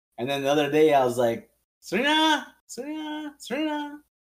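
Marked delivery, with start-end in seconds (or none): 1.8-4.0 put-on, very high-pitched calling out. Retelling calling Serena to bring her workbook out, calling out a name. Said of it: "i was trying to like call her".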